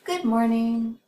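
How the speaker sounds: high, loud GOOD MORNING with declining pitch; high falling tune on GOOD MORNING; excited greeting. Shown as a demonstration. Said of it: "High declining pitch signals more excitement".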